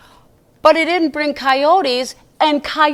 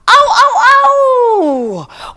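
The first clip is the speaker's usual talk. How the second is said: coyote yips; 10 semitones higher, 8 dB louder, much slower than usual. Acted. Coyotes howling at the moon.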